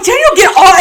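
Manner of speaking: high, loud shout to stop; retold yelling. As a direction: imitate cousins yelling at him. Acting out cousins yelling to stop.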